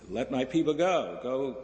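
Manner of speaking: lightly voiced God giving an order. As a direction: call out the command from the burning bush. God speaks to Moses, acted.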